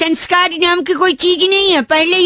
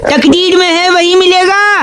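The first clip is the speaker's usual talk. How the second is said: mock shayari recital. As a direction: recite it as a robber playing poet. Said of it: "मैं एक शायर हूँ".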